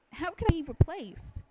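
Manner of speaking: high-pitched, incredulous question; indignant disbelief. Acted. Ousted popular girl protesting being replaced, incredulous.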